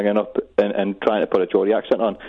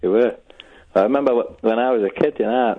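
unconvincing Geordie accent; bad Geordie accent. Real, not acted. Caller chatting to radio host in bad Geordie accent. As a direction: speak in a poor attempt at Geordie. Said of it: "This is the worst Geordie accent".

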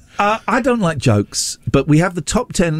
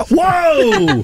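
surprised. Real, not acted. Reacting to shocking joke reply.

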